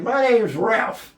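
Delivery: high, loud and slow; indignant correction. Retold or imitated. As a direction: spell it out, offended, every word stretched. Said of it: "I said".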